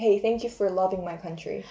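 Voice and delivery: ordinary talk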